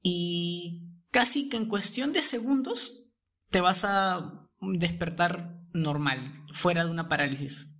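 very slow, calm reassurance; drawn-out gentle promise; right in your ear. Acted. Guides a listener in paralysis. (al oído, muy pausado y tranquilo)

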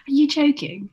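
high, loud mock incredulity on JOKING; exaggerated disbelief. Retelling a spat over accents to a co-host, hammed-up disbelief. Repeats retold retort, more exaggerated.

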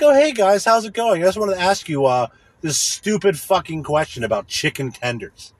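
high, bright-voiced fake greeting that fades back down; mock chipper friend. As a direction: parody a too-cheerful friend at dinner. Mocking friend asking dumb question.

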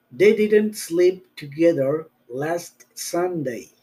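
slow, careful teacher read; slow model sentence. Shown as a demonstration. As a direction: spell it out slowly for learners. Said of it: "hay que tener cuidado que suene esa T".

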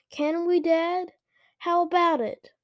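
high, loud, eager pestering; eagerly demanding. A narrator's reading. Luke pestering Dad to go, eagerly. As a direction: push Dad with keen questions. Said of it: "Luke demanded eagerly".

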